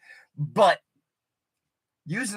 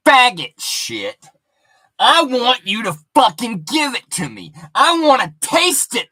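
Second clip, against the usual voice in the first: furious demand; 7 dB louder than usual. Retold or imitated. Comic retelling a woman yelling for more. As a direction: demand it, raging. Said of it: "she's like".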